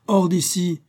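high shouted order; furious, pitched right up; angry dismissal. A narrator's reading. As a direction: throw them out sharply. Policeman throws the waiter out.

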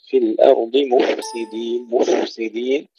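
مفسدين with a distinct unvowelled f; careful, audible ف in مفسدين; clear fa. Shown as a demonstration. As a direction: recite مفسدين sounding the ف fully before s. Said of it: "أيضًا نظهر الفاء".

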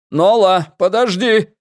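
urgent, high shout to wait; calling after her. A narrator's reading. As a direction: shout after someone running away. Chief calls after fleeing girl.

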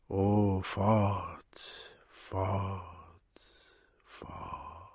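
cada vez mais baixo. A narrator's reading. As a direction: let each word sink away into near silence. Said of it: "Immer leiser, immer tiefer".

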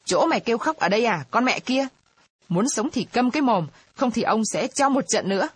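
hammed-up bully shouting, quickly; straining shout. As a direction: bark at her to shut up. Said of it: "gân cổ thét ra".

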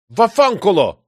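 loud furious shout of an Italian curse. Acted. Michel, patience snapped, curses at the marquis, furious shout. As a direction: bellow it out, losing all patience. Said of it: "вскричал я".

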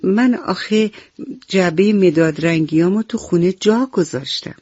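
halting, embarrassed little monkey; sheepish, hesitant confession. Acted. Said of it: "میمون با خجالت گفت".

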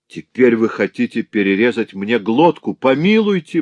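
high, loud begging for mercy; pleading. Acted. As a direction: beg for your life. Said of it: "взмолился Грамотей".

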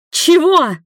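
high, loud shout; shouting back. A narrator's reading. Nina shouts back at Igor. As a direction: fling it back in the same tone. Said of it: "в таком же тоне ответила Нина".

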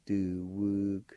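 "Du-wug-tana" in slow, separated syllables; measured "Du-wug-tana" for learners to copy; slow pronunciation. Shown as a demonstration. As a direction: sound out "Du-wug-tana" with G almost like K. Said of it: "like this".

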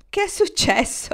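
high, bright, amused ask; laughing question. A narrator's reading. Marnie laughs asking Kendra what happened. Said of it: "le chiese Marnie ridendo".

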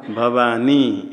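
भवानी drawn out very slowly, falling at the end; slow spelled-out form. Shown as a demonstration. Teacher asks the first person singular form, it is said slowly. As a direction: stretch भवानी syllable by syllable. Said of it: "तो रूप क्या बनेगा".

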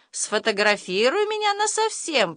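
put-on high-pitched boy's plea; storyteller voicing a child's request; pleading. A narrator's reading. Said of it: "просит Ваня".

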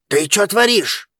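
understated angry yell. A narrator's reading. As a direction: cry out in alarmed protest. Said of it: "заорал Ян".

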